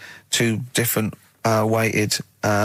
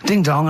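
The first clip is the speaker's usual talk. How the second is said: imitated doorbell; 4 semitones higher than usual. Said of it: "So it goes".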